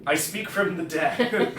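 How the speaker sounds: dreamy distant voice. Acted. Spooky voice from beyond.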